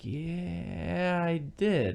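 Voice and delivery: high, drawn-out "Yeah", then "I did"; lying inflection. Retold or imitated. Man admitting the theft to Lena in his lying inflection, "Yeah" held long. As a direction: stretch "Yeah" high and soft as if deciding. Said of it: "He uses the same inflection he does when he lies".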